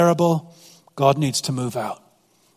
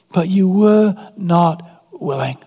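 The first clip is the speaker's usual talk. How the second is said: slow, mildly heartbroken; understated grief, slow; sorrowful; 2 semitones higher, slower than usual. Retold or imitated. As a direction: let the regret sink in slowly. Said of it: "And he says".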